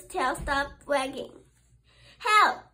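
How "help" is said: high loud cry for help. Acted. Stuck little squirrel calling Daddy, loud cry. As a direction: yelp for help. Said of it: "cried little squirrel".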